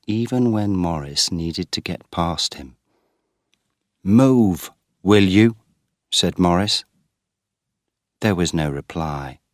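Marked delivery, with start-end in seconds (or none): 4.0-5.6 louder, snapping at him to move; impatient demand. Acted. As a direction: shove the words at a brother in the way. Brother blocking the way.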